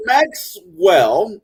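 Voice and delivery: usual speaking voice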